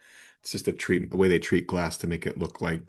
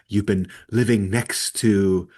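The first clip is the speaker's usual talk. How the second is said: Disney villain voice. Retold or imitated. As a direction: savour each word like a scheming villain. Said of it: "that Disney villain voice".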